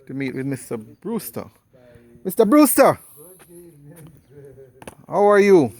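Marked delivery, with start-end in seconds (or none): 2.2-5.7 loud, high greeting; calling out. Real, not acted. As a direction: call out warmly across the room. Greeting an elderly man loudly.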